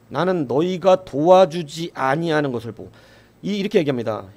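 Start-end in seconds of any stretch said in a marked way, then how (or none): 0.1-2.9 lightly voiced Jephthah, leaning on 도와주지 with a falling end; Jephthah's reply. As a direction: quote the judge's firm rebuke. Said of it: "이렇게 얘기하죠". (입다가 에브라임에게 단호하게 말하는 투)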